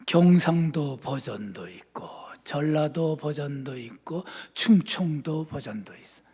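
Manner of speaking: usual speaking voice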